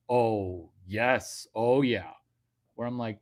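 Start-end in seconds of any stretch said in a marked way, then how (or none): 0.1-2.1 mock moan. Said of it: "you hear it as".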